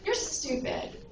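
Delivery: toned-down storyteller's yell; mildly frustrated yell. Retold or imitated. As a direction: act out a frustrated boy, held back. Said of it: "he's getting a little frustrated".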